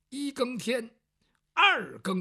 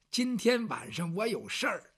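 ordinary delivery

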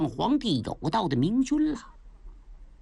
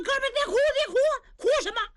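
jolly big brother telling a friend to stop crying; booming consoling sidekick; 13 semitones higher, much faster than usual. Acted. Niu Gao cheerfully urges his sworn brother to stop weeping, high and hearty.

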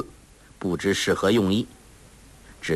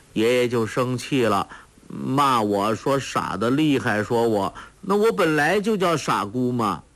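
put-on simple-minded girl; 4 semitones higher than usual. Sha Gu telling her story.

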